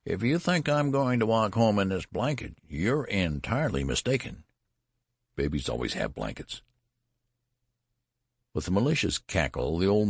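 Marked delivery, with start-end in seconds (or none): 0.1-6.6 put-on indignant old man. A narrator's reading. Old man protests the blanket.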